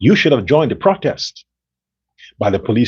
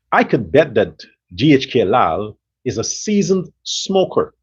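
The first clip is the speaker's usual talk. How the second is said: normal talking voice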